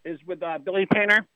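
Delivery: throat needs clearing; a little catch in the throat; frog in throat. Real, not acted. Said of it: "I got a little frog in my throat here".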